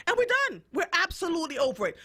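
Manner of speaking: emphatic. Real, not acted. Fed-up declaration.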